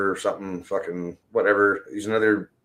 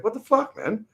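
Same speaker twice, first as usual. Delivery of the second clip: retelling own retort; 7 semitones higher than usual. Retold or imitated. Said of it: "It's like".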